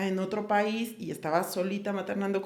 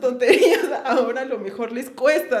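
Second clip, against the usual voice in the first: rueful self-mocking laugh; scolding herself with a guilty laugh for the careless comments; 3 semitones higher, 4 dB louder than usual. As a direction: laugh at your own past foolishness. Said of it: "como la culpa de".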